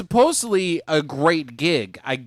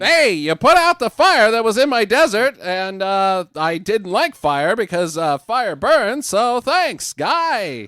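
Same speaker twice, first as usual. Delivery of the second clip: high, louder sarcastic thanks; 5 semitones higher, 5 dB louder than usual. Retold or imitated. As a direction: thank him with heavy sarcasm. Voicing Set sarcastically thanking.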